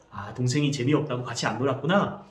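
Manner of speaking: put-on plain calm echo of the boy's words; mother reflecting the older brother's feelings; mother's empathetic echo. Shown as a demonstration. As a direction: repeat it back gently. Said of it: "아, ... 놀았구나".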